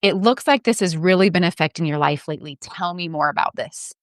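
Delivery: lightly voiced kind clinician; caring and open. Shown as a demonstration. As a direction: say it like you truly want to hear. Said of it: "That's night and day".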